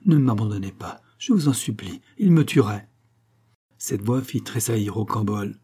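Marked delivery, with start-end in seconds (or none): 0.1-2.9 fearful plea. Acted. Frightened woman begs her rescuer not to abandon her. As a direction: beg him not to leave her. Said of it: "avec l'accent de la crainte".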